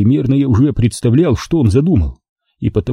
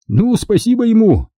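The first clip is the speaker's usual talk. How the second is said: Garik's higher smirking thanks; a grinning thank-you, pitched higher; 11 semitones higher than usual. Acted. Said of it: "ухмыльнулся Гарик".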